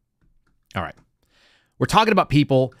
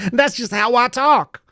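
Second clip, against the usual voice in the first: higher, slow, mocking imitation; lightly hammed-up imitation of a politician; mock politician retort; 10 semitones higher, slower than usual. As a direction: drag it out like a smug excuse.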